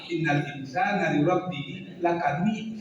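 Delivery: Minang reading, lakanud changed at the ending; Minang accent. Shown as a demonstration. Teacher showing what not to do, Minang accent on lakanud. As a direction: alter the end of lakanud the Minang way. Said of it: "karena kita orang Minang kita rubah".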